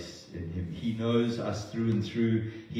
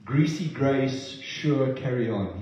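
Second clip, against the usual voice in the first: mock permissive; 3 semitones higher, 3 dB louder, slower than usual. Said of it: "He doesn't say".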